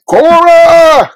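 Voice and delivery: high, loud call across a distance; high carrying shout. Pretend. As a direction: yell the name out to find her. Calling out a name.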